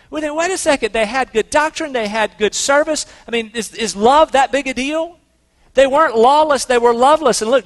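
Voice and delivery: impassioned preaching. Real, not acted. Preaching climax, raised and loud.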